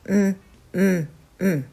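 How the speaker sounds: each うん a short hum on closed lips; closed-mouth M. Shown as a demonstration. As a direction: hum うん as separate mm sounds. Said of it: "口をしっかり閉じた状態".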